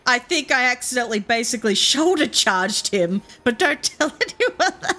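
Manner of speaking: giggling through a sheepish admission, pitch jumping up at the end; laughing confession. Retold or imitated. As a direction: let a laugh break in as she owns up. Mum confessing, laughing mid-sentence.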